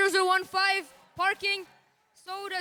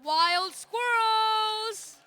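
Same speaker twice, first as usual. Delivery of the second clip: slow, stretched announcer flourish; drawn-out team name; 2 semitones higher, 4 dB louder, much slower than usual. Acted. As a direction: draw the name out like a ring announcer.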